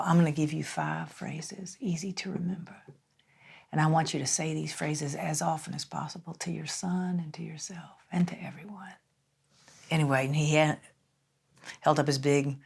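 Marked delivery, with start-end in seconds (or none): 0.0-8.9 put-on old mentor's Southern drawl, trailing soft. Mentor giving a mother five phrases, Southern drawl. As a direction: imitate a gentle Southern drawl. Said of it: "in his Southern drawl".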